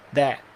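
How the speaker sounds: "that" with tongue between teeth, final T silent; tongue-bitten TH. Shown as a demonstration. Teacher showing students "that" with bitten TH, silent T. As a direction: bite the tongue for "that", drop the T. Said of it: "Aquela linguinha morde".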